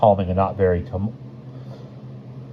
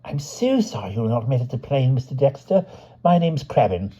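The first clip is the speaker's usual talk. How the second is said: apologetic Crabbin; 6 semitones higher than usual. A narrator's reading. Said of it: "went apologetically on".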